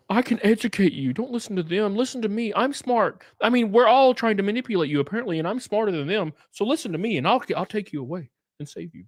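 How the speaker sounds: high, fast, smug persuasion; mock savior pitch. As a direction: oversell himself as smart. Voicing the savior.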